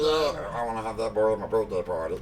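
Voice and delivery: quick, badly faked cartoon-kid voice; Cartman. Showing co-hosts his failed old impression, cartoon brat voice. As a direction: try the cartoon brat and half miss it. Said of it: "like Meat Wad or something when I do it".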